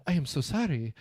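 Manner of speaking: halting imitation of a South American accent; mock South American accent. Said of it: "he's just speaking in a normal accent".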